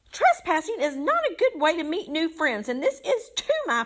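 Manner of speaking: very high, swooping squeak. Narrator reads the little varmint's line as he jumps about, squeaky voice rising in volume. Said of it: "his squeaky voice rose in volume".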